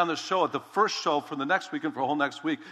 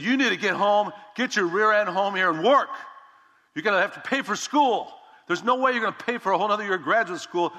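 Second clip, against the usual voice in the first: retold angry father, louder and higher; dad laying into him; 5 semitones higher, 3 dB louder than usual. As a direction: bark it like an upset dad scolding his son. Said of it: "just laid into me".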